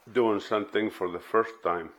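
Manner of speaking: mouth full. Real, not acted. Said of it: "sorry, I have a candy in my mouth".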